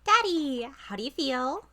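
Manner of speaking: put-on cheerful girl voice. S1 voices Trucy.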